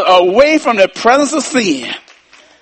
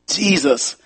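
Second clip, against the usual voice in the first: whisper; 4 semitones lower, 8 dB quieter, much slower than usual. Real, not acted. Whispered closing.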